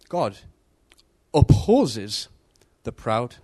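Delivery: God opposes the proud, each word set apart with pauses; slow, word by word. Shown as a demonstration. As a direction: spell it out slowly, pausing after God and after opposes. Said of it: "it says that God opposes the proud".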